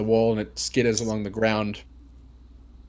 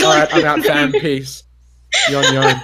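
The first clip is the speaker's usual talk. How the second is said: panicked bailing out; 4 semitones higher, 8 dB louder than usual. Retold or imitated. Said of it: "I'd be like".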